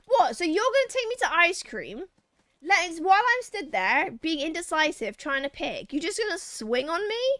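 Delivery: hammed-up shock at being ambushed; mock outraged Tori. Tori betrayed while picking ice cream, mock outrage. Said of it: "Tries just like".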